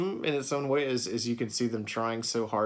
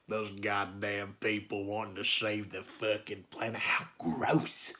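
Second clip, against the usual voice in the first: mock sarcastic; 2 semitones lower, 4 dB quieter, slower than usual. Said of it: "For some reason, I wanted to be a smart".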